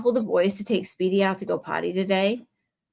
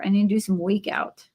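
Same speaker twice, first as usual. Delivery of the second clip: New Yorker. Retold or imitated. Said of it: "like a New Yorker".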